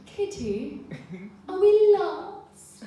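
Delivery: put-on a scared kid asking if they're lost; worried little girl. Tired girl asks her leader if they're lost, anxious. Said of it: "she's like".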